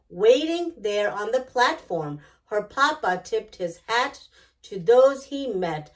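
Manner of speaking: gentle, measured picture-book narration; reading to children. A narrator's reading. Storyteller reading a picture book to young listeners, gentle and measured. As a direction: read it aloud like bedtime story time for kids.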